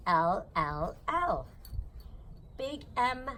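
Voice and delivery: sing-song picture-book read-aloud; reading to a child. Acted. Reading an alphabet book aloud to her baby, sing-song. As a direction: read it bouncy and playful for a little one. Reads Dr. Seuss ABC to child.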